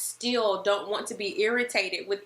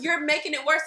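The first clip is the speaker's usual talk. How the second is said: higher, louder exasperated complaint; mock annoyed; 7 semitones higher, 4 dB louder, faster than usual. Wife scolding pestering husband, mock annoyed. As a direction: tell him off, half laughing. Retold angry reply to husband.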